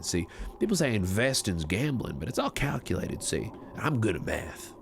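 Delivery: put-on easy western cowboy accent, lightly done. Streamer in character on a cowboy server, western accent.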